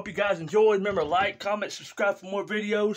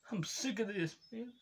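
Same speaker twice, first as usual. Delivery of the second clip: whisper; 4 semitones higher, 10 dB quieter than usual. Acted. Crying rager whispers.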